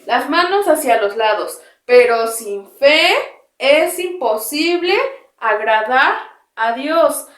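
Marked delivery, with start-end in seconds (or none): 1.8-7.3 drawn-out verse with arms out to the sides; slow recitation. Shown as a demonstration. Teacher reciting the verse, arms spread, slow and drawn out. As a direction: lead the verse slowly for the class to echo. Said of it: "vamos, después de mí".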